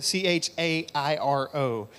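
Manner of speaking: ordinary delivery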